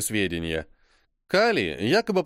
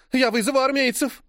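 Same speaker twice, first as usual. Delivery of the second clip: cried threat; 11 semitones higher than usual. Acted. Frenchwoman threatening John with the army, high cry. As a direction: threaten to call the soldiers, shouting. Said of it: "кричит француженка".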